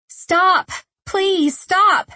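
high, desperate screams to stop; screaming. A narrator's reading. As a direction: scream it, begging him to stop. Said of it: "She was screaming".

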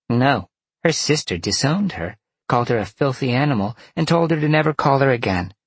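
high, brisk vixen voice; indignant vixen. A narrator's reading. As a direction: report it high, speeding up indignantly. Vixen reports the sister's rejection.

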